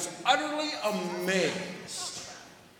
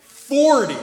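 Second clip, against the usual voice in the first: excited; 7 semitones higher, 14 dB louder than usual. Real, not acted. Excited reveal of bird count.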